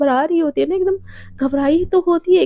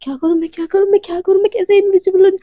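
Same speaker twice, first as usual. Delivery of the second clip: rising panic, getting louder; panicky rising fret; 5 semitones higher, 4 dB louder, faster than usual. Acted. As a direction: voice climbing higher in panic. Panicked girl voiced in story.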